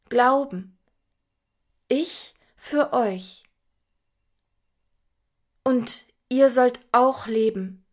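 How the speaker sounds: words dropping out with long gaps; like a call breaking up on bad Wi-Fi; choppy broken connection. A narrator's reading. Jesus speaking over a failing video call, choppy and broken. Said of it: "Ich höre seine Stimme nur noch abgehackt".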